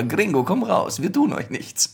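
high-pitched movie bandit taunt; western bandit voice. Retold or imitated. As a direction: call out like a Mexican bandit. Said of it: "ein Zitat aus Rio Grande".

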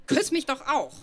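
leicht gespielter Schmollton, etwas höher; beleidigt. Retold or imitated. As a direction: ein Hauch gekränkter Junge, der bettelt. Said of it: "da sagte er beleidigt". (beleidigt quengelnd, nur angedeutet)

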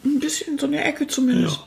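mouthful, still eating; chewing while talking. Real, not acted. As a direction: talk between bites. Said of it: "ich esse gerade an einer Apfeltasche".

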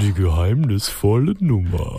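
low, slow dramatic radio announcer; mysterious radio voice. Pretend. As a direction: echo it like a spooky radio jingle. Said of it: "du bist einfach so drauf eingestiegen".

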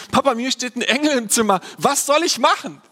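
panicked phone call. Pretend. Pastor imagines phoning his dad about an angel, mock panic. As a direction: play it as a half-joking frantic call to dad. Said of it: "meinen Vater angerufen und sagen".

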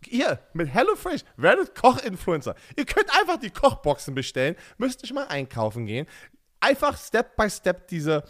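chatty host-read advert; podcast ad read. Acted. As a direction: sell it to the listeners with swinging pitch. Reads the sponsor ad.

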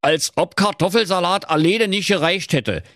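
old miser mocking "Kartoffelsalat" mid-sentence; scornful miser. A narrator's reading. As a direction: sneer at the extravagance. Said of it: "Da knurrte der Knöterich".

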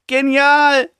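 overjoyed coach shouting Genial; excited shout. Retold or imitated. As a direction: yell it out thrilled. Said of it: "ruft hinterher".

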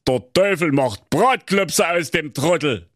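lightly voiced evil glee; gloating king. A narrator's reading. King gloating to himself, a hint of evil glee. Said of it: "dachte bei sich".

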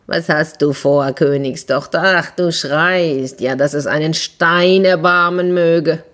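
lightly voiced frog, slow and teasing; a hint of a croaky frog calling up from the well.

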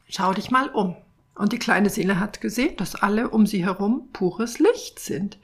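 gentle storytelling read aloud; story narration. A narrator's reading. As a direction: read it like a children's picture book. Reads picture book story aloud.

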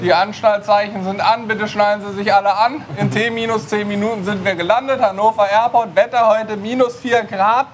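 lightly voiced cabin announcement; a playful pilot's landing announcement; flight attendant. Mock landing announcement, airport feeling.

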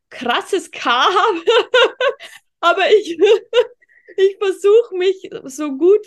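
can't stop laughing while talking. Real, not acted. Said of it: "extremes rollendes R und krasses K". (lachend, kichernd)

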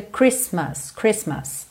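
"Christmas" as KRIS-mus; silent middle T. Shown as a demonstration. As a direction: drop the T inside "Christmas". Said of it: "não pronuncia esse T do meio".

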